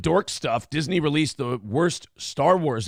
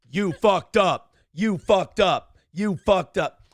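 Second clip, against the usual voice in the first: slow, louder laughing taunt; 3 semitones higher, 4 dB louder, slower than usual. Real, not acted. Host teases cohost who broke her mic, slow and laughing. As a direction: drag out each word, laughing at her.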